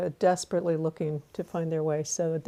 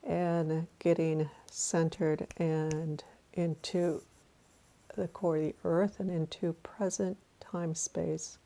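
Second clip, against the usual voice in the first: guided meditation. Acted.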